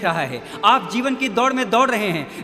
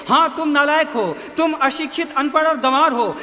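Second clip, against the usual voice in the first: raised, higher jeer; shouting crowd; 5 semitones higher, 4 dB louder than usual. A narrator's reading. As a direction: hurl insults as a crowd would. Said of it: "भीड़ चिल्ला रही है". (भीड़ की तरह ऊँचे सुर में ताने)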